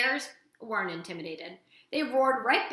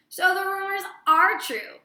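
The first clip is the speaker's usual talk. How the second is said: laughing; 10 semitones higher, 10 dB louder than usual. A narrator's reading. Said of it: "Nettle laughed".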